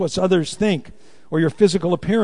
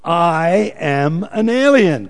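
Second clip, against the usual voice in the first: slow, firm and louder, every word weighted; with conviction; 5 dB louder, much slower than usual. Shown as a demonstration. Preacher leads the congregation: firm, slow conviction. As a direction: declare it like you mean it. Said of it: "Now say it with conviction".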